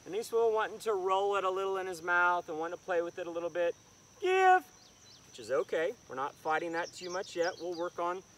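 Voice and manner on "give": high sharp command. Real, not acted. Trainer commanding dog to release.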